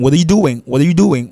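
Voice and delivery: "what are you doing" as "wader you doing"; R pronounced. Shown as a demonstration. Teacher showing the R can come out, R pronounced. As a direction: link "what are" with a flat T, keep the R. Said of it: "c'est soit fait R là, sorti".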